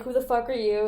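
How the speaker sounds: mild retold challenge; confrontational. Intruder to roommate in a beef, mildly confrontational. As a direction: ask it as a lightly acted challenge. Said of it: "they're having an, a beef because he's like".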